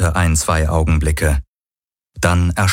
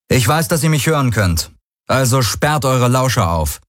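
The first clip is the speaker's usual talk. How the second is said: brash taunting broadcast, a bit higher; cocky hero voice; 6 semitones higher than usual. Acted. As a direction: swagger into the mic. Hero's broadcast to enemies.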